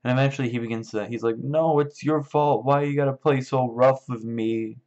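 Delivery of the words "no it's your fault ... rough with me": high, loud, drawn-out whine; mock upset blame. Lenny scolds his dead puppy, in a high mock-upset whine. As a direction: imitate a big child wailing in protest.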